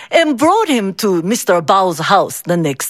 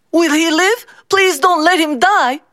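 pleading mother; 8 semitones higher than usual. Acted. Mother begs the doctor.

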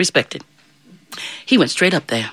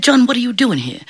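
surprised saint; 8 semitones higher than usual. Acted. Saint Peter questions John at heaven.

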